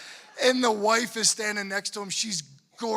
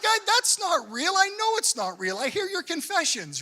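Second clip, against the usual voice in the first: mock exasperation; 7 semitones higher, 5 dB louder than usual. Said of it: "I'm like".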